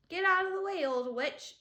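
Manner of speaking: loud, high shove-off yell; boy yelling at a witch in his way; rude yell. A narrator's reading. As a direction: bark it at her. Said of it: "Eric yelled at Ramona".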